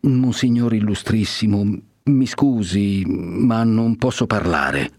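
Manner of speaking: slow, halting, timid reply; hesitant. Acted. The curate falters before the cardinal, slow and timid. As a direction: stall nervously before your superior. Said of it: "disse titubando".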